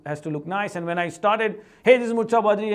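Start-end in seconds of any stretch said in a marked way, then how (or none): 1.8-2.7 louder, formal scripted video intro; mock serious presenter. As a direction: recite it like a stiff scripted host. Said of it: "as serious, didn't like it".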